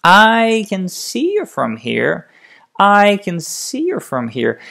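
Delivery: nearly normal speed with the stressed words still marked. Shown as a demonstration. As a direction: say it twice, flowing but still stressed. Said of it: "we get to a faster pace".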